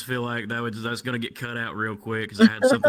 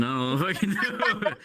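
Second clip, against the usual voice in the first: normal talking voice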